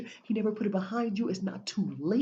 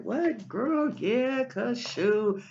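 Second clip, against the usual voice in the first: put-on carefree girl voice; 4 semitones higher, 5 dB louder, much slower than usual. Showing a chill, relaxed self.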